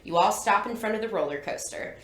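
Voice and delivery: second-person storybook reading; story narration. A narrator's reading. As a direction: narrate the adventure to the listener. Reads the book aloud.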